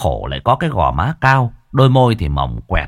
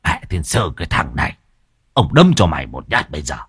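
put-on angry old man; 5 semitones lower than usual. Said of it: "muốn tức phun máu".

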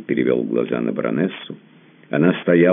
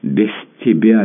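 sobbing plea; 9 semitones higher, 7 dB louder than usual. A narrator's reading. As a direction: beg through sobs, breaking at the end. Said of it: "с рыданиями вырвалось у него".

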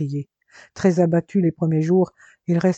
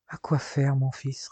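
a touch of tired resignation, softer; weary; 2 semitones lower, 5 dB quieter than usual. Acted. A worn-out father answers his son's plea, mildly weary. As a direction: let it sag, worn out. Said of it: "lassé".

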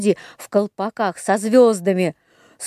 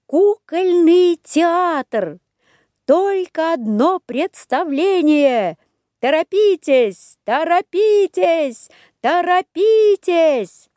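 slow high drawn-out announcement; barker calling; 8 semitones higher, slower than usual. A narrator's reading. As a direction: call out like a fairground barker. Poster call in high voice. (зазывала на ярмарке)

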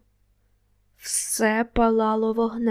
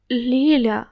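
louder call of her name; 6 dB louder than usual. Acted. Narrator calling to Lilia hiding in the kitchen, louder call. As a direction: call across the room to find her, louder. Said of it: "покликав її".

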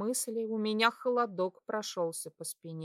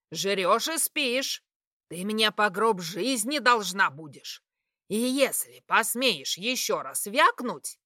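furious threat; 6 dB louder than usual. Acted. Mother threatening to marry off daughter. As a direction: threaten her through the rage.

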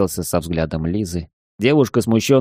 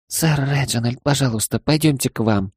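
pleading; 5 semitones higher than usual. Acted. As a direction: beg him, timid and urgent. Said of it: "взмолилась она".

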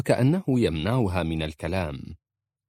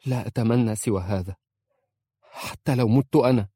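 louder, resolute declaration; forceful; 3 semitones higher, 4 dB louder than usual. A narrator's reading. Wife tells husband she'd die for him, forceful. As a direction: say it with strength. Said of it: "قالت في قوة".

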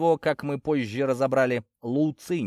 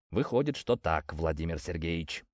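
low, soft, resigned admission; quietly downcast; sad; 7 semitones lower, 6 dB quieter than usual. A narrator's reading. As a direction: admit it sadly, voice sinking. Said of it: "грустно заметил я".

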